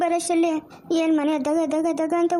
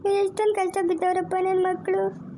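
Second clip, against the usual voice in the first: crying. Acted. Mother grieving children's suffering.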